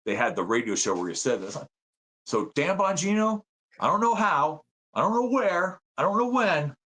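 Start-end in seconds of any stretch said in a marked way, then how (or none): 2.2-6.7 mock menace. Mock threat of revenge.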